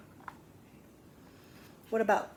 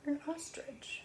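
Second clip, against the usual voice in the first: whisper; 7 semitones higher, 9 dB quieter than usual. Acted. Weighing a wrong and right version.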